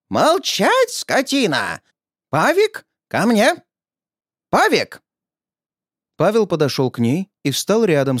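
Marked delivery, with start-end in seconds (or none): 0.1-5.0 put-on old woman's shrill command. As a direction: snap at him, then call the boy sharply. Old woman silences, calls son.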